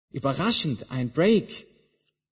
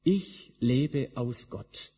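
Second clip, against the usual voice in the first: Jesus resisting; 4 semitones higher, 4 dB louder than usual. Retold or imitated. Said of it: "Und Jesus widersteht und sagt".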